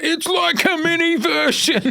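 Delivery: imitated workmates gushing over a mini me; mock gushing coworkers. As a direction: coo over the little kid. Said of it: "everyone's like".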